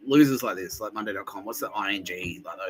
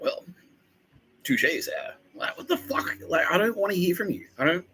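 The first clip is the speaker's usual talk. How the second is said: mock smug company; 9 semitones higher than usual. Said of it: "they put ads out going like".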